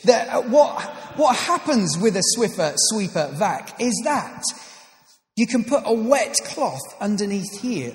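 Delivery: hammed-up infomercial host, rising excitement; infomercial pitch. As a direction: sell the mop like a TV ad, building up. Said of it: "not a sales pitch".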